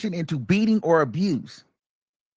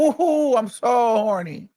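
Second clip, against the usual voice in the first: high, giggly, slow fake enthusiasm; mock eager reply; 8 semitones higher, slower than usual. Woman giving a rapper the scripted answer, mock eager. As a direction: ham up the forced excitement with a laugh.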